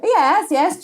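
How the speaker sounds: clueless customer nodding along, high and eager; eager yes. Retold or imitated.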